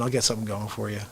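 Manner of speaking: ordinary talk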